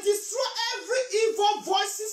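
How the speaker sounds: impassioned church declaration; fervent prayer. Real, not acted. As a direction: proclaim the prayer over the congregation. Interprets the prayer aloud.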